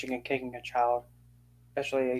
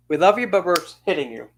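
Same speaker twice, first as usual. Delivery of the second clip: mocking sing-song; 4 semitones higher, 4 dB louder, faster than usual. Mocking abusers' excuse.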